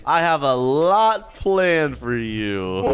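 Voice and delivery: slow, relishing mock menace; lightly played scheming villain; evil villain. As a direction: draw it out like a pretend villain. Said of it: "I'm like an evil villain".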